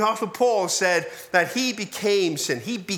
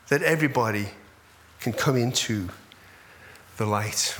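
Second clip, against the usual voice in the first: earnest compassion, dropping to a low close; God's loving response; 3 semitones lower than usual. Acted. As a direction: speak as a loving God, voice sinking gradually. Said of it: "God's response is".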